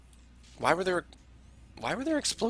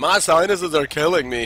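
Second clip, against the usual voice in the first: hammed-up sick moaner, louder; mock sufferer; 3 semitones higher, 7 dB louder than usual. Caster quotes a common complaint as a mock moan. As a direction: lightly act out a whining cold sufferer. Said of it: "a sentence that you hear all the time".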